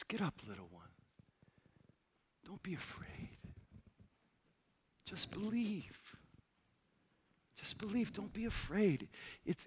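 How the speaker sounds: tender comfort. Retold or imitated. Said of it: "He says".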